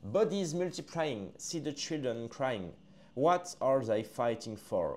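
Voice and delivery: put-on slow, solemn English verse read in a French accent; slow solemn recital of English lyrics; poem recital. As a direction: intone each line slowly, leaving pauses. Reads English poem aloud.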